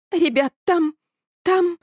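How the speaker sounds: start, stop, let the voice break in fear; trembling, breaking voice. A narrator's reading. Frightened Elya stammers to the boys, voice breaking. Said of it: "Голос Эли дрожал и срывался".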